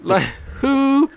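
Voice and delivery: very high, stretched-out disbelief; incredulous. Acted. Mock disbelief at who made it.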